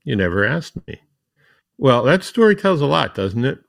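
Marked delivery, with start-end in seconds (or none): 0.0-1.0 calm, understated retold reply; lightly acted unruffled comeback. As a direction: answer the outburst evenly, at normal volume. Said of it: "said in a calm voice".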